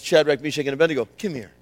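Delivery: the king ordering them to him; stern king summons. Acted. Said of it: "He said".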